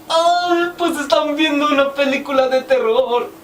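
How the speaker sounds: high little chick voice. Acted. Chicks answering the riddle.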